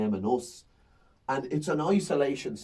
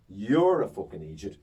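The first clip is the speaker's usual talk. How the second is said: repeated stage insult; 4 semitones lower than usual. Retold or imitated. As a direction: drive the insult home a second time. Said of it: "and I go".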